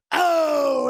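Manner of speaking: sudden high shout; a loud excited cry. Real, not acted. Excited exclaim in story.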